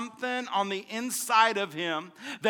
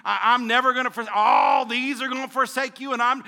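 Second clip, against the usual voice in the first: loud, rising vow of loyalty; mock boast; 3 semitones higher, 5 dB louder than usual. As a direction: shout it like a brash promise. Preacher voicing Peter's boast.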